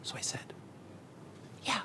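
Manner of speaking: tiny whispered reply. Acted. Student agreeing with his rabbi, whispering. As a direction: answer in a hush. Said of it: "when you whisper".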